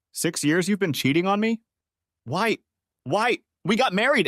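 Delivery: betrayed husband shouting at his cheating wife; anguished shouting. Acted. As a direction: hurl the question at her.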